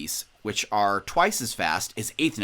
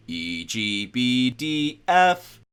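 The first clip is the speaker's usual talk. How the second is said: stepwise rising pitch; 4 dB louder, much slower than usual. Shown as a demonstration. Teacher naming the staff lines bottom to top, stepwise rising pitch.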